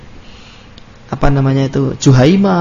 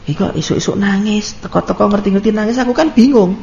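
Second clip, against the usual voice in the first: mock flustered husband; 3 semitones higher, 5 dB quieter than usual. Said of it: "nangis, Pak".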